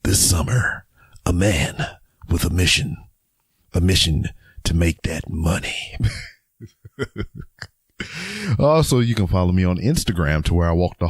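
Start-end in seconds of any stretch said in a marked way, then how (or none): 0.0-6.0 movie trailer voice. Shown as a demonstration. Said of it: "can be mixed up with my movie voice". 7.0-7.6 laugh. Real, not acted. Laughs at own trailer voice.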